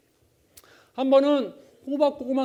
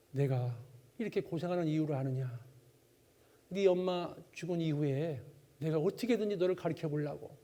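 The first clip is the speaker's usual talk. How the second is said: soft, low, tearful father's lament; father crying; 5 semitones lower, 6 dB quieter than usual. Retold or imitated. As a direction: lightly voice the father through tears. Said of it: "갑자기 아버지가 막 우는 거예요".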